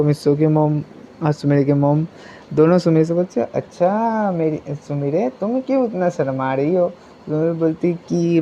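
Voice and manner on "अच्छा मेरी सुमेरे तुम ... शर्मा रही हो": softer, fond motherly teasing; gentle teasing. Acted. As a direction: coax her gently, voice dropped. Mothers gently tease the shy girl.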